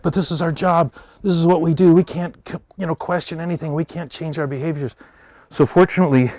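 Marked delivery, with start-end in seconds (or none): 0.0-4.9 higher, helpless protest; defensive pawns. Retold or imitated. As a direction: play the cog who can't question anything. Other pawns defending their routine.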